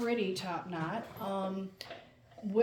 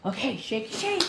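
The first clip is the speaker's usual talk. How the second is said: sing-song dog cue; 2 semitones higher, 4 dB louder than usual. Real, not acted. Cueing dog to shake.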